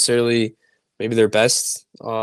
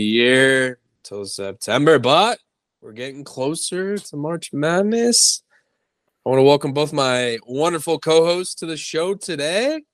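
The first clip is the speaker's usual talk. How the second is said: drawn-out podcast intro with swooping pitch; announcer-like welcome with rising line ends; show-opening host delivery; slower than usual. Real, not acted. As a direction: open the show, stretching key words.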